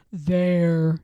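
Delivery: put-on proud old grandfather; grandfather bear. A narrator's reading. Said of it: "he said".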